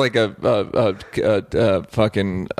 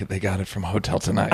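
much softer, lower gossiping hush; mock whisper; 3 semitones lower, 6 dB quieter than usual. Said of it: "they're whispering like".

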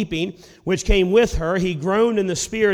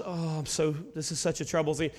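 softer, lower, mild mock groan; weary groaning; 3 semitones lower, 10 dB quieter than usual. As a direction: mumble it like a half-hearted weary complaint. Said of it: "it's kinda like groaning".

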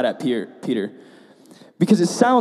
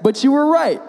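pained admission; 9 semitones higher than usual. Retold or imitated. Pastor re-enacting admitting to parents, pained and strained. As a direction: force the words out past wounded pride. Hurt every part of my pride.

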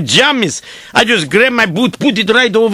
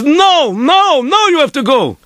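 higher, insistent refusal; persistent rabbi; 5 semitones higher than usual. Retold or imitated. Rabbi shaking the sleeper, persistent. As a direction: press the point with each repeated no. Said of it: "very, very persistent".

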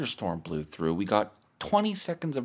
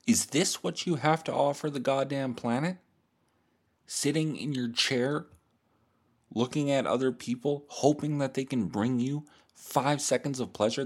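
mock interrogation, building higher as it goes; long-winded philosophy lecture; 3 semitones higher than usual. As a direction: lecture the listener with mounting mild exasperation. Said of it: "very long-winded and not that hot".

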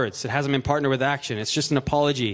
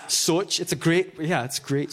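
higher-pitched Scottish accent; 3 semitones higher, slower than usual. Shown as a demonstration. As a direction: play up the Scottish vowel, pitched up. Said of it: "this weird Scottish accent".

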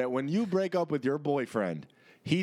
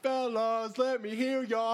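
hype man shout; 7 semitones higher than usual. Pretend.

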